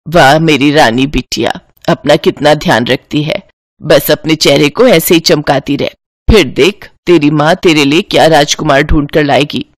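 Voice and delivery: put-on a fond mother cooing over her girl; doting mother. Mother Kamla voiced by narrator.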